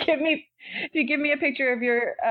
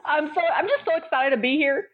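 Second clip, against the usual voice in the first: sarcastically over-excited, pitched up; sarcastic; 5 semitones higher than usual. Real, not acted. Guest greeting podcast hosts who welcomed her, sarcastic. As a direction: gush with mock excitement. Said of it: "I feel like you're being sarcastic".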